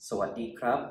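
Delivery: สวัสดีครับ with a rising ครับ; polite male greeting. Shown as a demonstration. Teacher showing men the polite greeting, clear and even. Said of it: "you can say".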